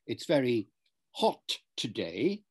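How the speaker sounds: "hot" with a crisp, fully released T; released final T. Shown as a demonstration. Teacher demonstrating RP to a student, "hot" with a clear T. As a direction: say "hot" with the T sounded at the end. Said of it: "with a T at the end".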